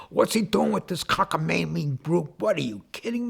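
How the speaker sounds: mock outrage at the rock band; imitating his father. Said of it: "my father says".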